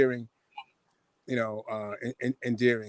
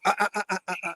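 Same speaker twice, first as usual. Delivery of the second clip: higher, mock tutting no-no; mock warning; 6 semitones higher, much faster than usual. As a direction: wag a finger with sound. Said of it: "they're like".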